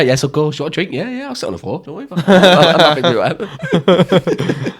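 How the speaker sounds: hammed-up people-pleaser, ending in laughter; mock eager yes-man. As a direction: play a pushover agreeing to anything. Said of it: "I'd be like".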